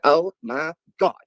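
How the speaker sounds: drawn-out dismay at learning she ate frog; shocked groan. Retold or imitated. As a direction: stretch it out in mock horror. Friend realizes she ate frog.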